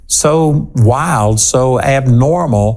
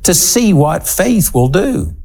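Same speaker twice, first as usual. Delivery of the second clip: slow, emphatic and incredulous; incredulous reproof; 4 semitones higher, slower than usual. Acted. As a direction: chide them for being surprised. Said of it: "what Jesus was conveying when he said".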